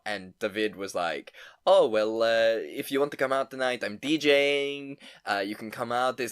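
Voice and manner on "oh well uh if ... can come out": a clumsy attempt at an Italian accent that drifts toward Russian; hammed-up Italian accent, a bit louder; bad Italian accent. Mimicking the Italian DJ host with a failed Italian accent. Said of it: "I can't do an Italian accent".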